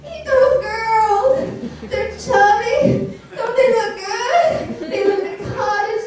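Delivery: put-on dwarf frantically offering the girls to the bear; alarmed dwarf. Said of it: "was even more alarmed".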